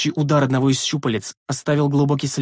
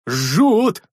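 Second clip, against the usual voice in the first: higher pained yelp; pained cry; 5 semitones higher, 4 dB louder than usual. Acted. Big man with burnt hands, pained cry. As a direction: cry out at a burn.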